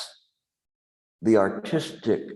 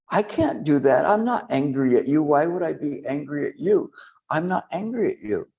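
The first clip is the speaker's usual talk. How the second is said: mock protesting student; 4 semitones higher than usual. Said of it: "And they went".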